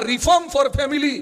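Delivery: reform for family stretched very slow with reform stressed; slow slogan. Shown as a demonstration. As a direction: drop into the motto slowly, word by word. Slogan repeated at end of story.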